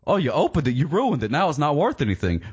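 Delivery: high-pitched scolding imitation of a purist; mock disdain. People who don't open toys judging those who do, mock disdain. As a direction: mimic a collector looking down on them. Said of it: "and they say".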